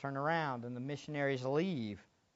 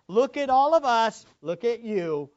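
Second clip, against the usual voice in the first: intimidating; 6 semitones higher, 11 dB louder than usual. Acted. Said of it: "They put them there and said".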